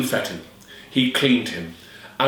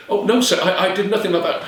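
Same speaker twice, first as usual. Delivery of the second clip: frightened denial; 7 semitones higher, faster than usual. Acted. Alison denying.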